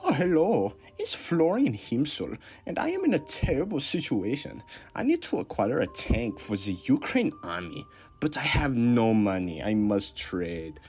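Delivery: hammed-up Austrian caller in trouble; Austrian accent. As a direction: plead with a thick Austrian accent. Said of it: "that Austrian one is very good".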